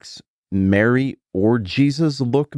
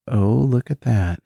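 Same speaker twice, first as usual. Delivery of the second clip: slow, gentle aside leaning over; humble and respectful; 2 semitones higher, slower than usual. Shown as a demonstration. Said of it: "it's very humble and it's very respectful".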